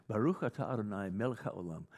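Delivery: Hebrew "Baruch atah Adonai, Melech haolam", throaty ch sounds; Hebrew blessing. Shown as a demonstration. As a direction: recite "Melech haolam" as in a Jewish service. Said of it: "a formula that is invoked".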